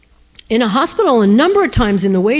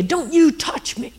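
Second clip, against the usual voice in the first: imitated angry old woman; 6 semitones higher than usual. Old woman flinging her finger at a stranger, angry warning. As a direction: warn them off in a restrained mock-angry voice. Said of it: "And she was angry".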